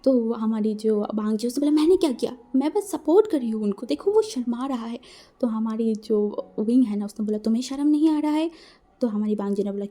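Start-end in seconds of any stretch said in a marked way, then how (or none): 1.8-5.0 innocent protest. Acted. Wangji defends himself. 7.4-8.5 scolding. Acted. Wing scolds Wangji.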